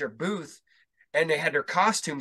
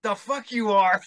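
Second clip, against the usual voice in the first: disbelieving retort; 7 semitones higher, 3 dB louder than usual. Retold or imitated. Retold disbelief at meeting.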